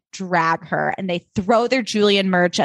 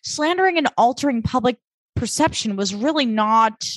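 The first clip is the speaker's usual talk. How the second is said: imitating Kate; 4 semitones higher than usual. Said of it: "Kate's like".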